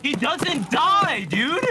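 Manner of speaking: shocked disbelief. Real, not acted. Enemy survives shots.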